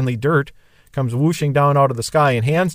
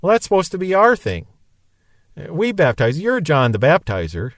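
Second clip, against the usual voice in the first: upset complaint; 2 semitones higher than usual. Retold or imitated. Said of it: "I think they're upset".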